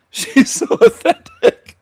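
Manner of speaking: squealing laugh through sarcastic praise; very high, loud cackling sarcasm; laughing mockery. Real, not acted. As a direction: crack up while mocking her. Laughing mock at guest.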